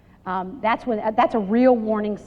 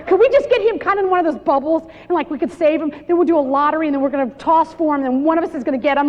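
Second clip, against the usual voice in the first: eager friends; 4 semitones higher, faster than usual. Retold or imitated. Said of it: "my single friends used to say".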